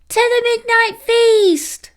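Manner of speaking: little sisters' squeaky rallying cry; puppies crying out. A narrator's reading. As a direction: cheer it like excited little pups. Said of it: "cried his sisters".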